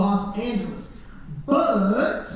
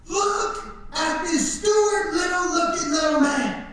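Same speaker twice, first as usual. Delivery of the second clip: higher, taunting yell; mock jeering shout; 8 semitones higher than usual. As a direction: heckle the new little guy from the cells. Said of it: "all these dudes would start screaming".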